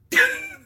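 high squealing laugh; loud shriek of laughter at the punchline; burst of laughter. Real, not acted. Vlogger cracks up at her own joke's punchline, squealing laugh.

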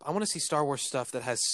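hiccuping between words; with hiccups. Real, not acted. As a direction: talk through hiccups. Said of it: "Sorry, I've got hiccups".

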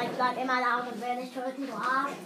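low flat robot voice; old speech synthesizer. Pretend. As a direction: drone it mechanically. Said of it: "Ich bin ein Roboter". (monotone Roboterstimme)

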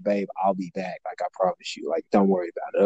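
low, hushed promise to a partner; soothing reassurance. Retold or imitated. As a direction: soothe an upset girlfriend softly. Calming his upset girlfriend.

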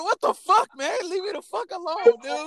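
fed-up rant. Retold or imitated. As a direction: vent it like you're sick of her. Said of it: "I was like".

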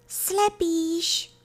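high, thin little creature voice; tiny faint voice. A narrator's reading. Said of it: "docela slabonký hlásek". (slabounký vysoký hlásek)

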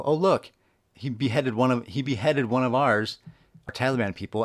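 high, loud mock astonishment; mock Taliban reaction. Podcaster acting out Taliban finding the video, mock shock. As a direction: imitate onlookers exclaiming in shock. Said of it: "and fucking go".

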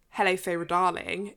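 lightly put-on well-to-do British; a refined British delivery, understated; well-to-do British accent. Host giving the line as heard in her head, well-to-do British accent. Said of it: "in a very well-to-do British accent".

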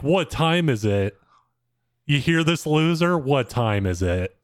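mock him by parroting his question; a hint of a jeering girl; mocking Scottish girl. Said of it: "the Scottish girl's like".

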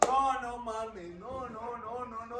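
amazed disbelief. Real, not acted. Amazed at goal replay.

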